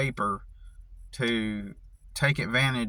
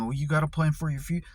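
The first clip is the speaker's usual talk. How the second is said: mocking quote; much faster than usual. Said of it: "people have always told me".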